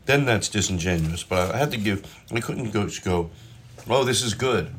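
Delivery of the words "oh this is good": understated fake praise. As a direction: hold back the enthusiasm. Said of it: "if they think that's too much".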